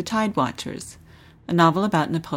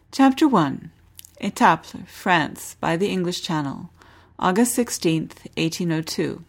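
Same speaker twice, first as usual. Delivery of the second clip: measured read-aloud novel narration; lively historical novel narration; story narration. Acted. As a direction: read the chapter like an audiobook. Host reads novel excerpt aloud.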